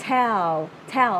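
"tell" with a popped T and clear final L; crisp T, tongue up for the L in "tell"; released T. Shown as a demonstration. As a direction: pop the T in "tell". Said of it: "Nó là âm t".

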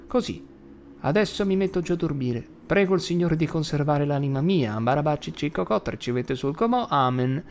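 put-on a light, high child's singsong prayer; grandma mimicking a small child; lightly voiced little girl's prayer; imitating a little girl praying. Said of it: "come pregava Ruti quando era piccola".

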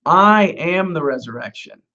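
I set out with weight at the start; emphatic I. Acted. Rabbi answering Martha about the resurrection, emphatic I. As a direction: lean on I as the word that matters. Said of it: "that's emphatic when you say Anochi".

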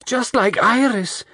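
high, drawn-out cry of horror. A narrator's reading. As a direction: wail it slowly, pitched very high. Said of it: "Lola cried".

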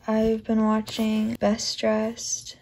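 slow soft whisper; quiet at night. Real, not acted. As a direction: hush it, parents sleeping. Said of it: "Sorry I'm talking really quiet".

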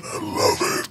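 sarcastic whispered aside; whispering. Real, not acted. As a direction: whisper it dryly to yourself. Burned tongue, sarcastic aside.

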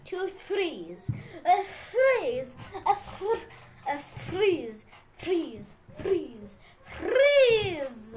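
"threes" repeated with effort on the opening th; practising the th sound. Shown as a demonstration. Player who has trouble saying three, practising "threes". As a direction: work at the "thr" in "threes", take after take. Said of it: "have trouble saying th".

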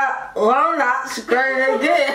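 slow, garbled through a guard; mouth propped open. Real, not acted. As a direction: force words past a mouth guard. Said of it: "so hard to say".

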